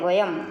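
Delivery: वयम with a closed m ending; वयम ending on m, not nasal vowel; said as vayam. Shown as a demonstration. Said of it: "ये हलंत माँ की आवाज़ देगी".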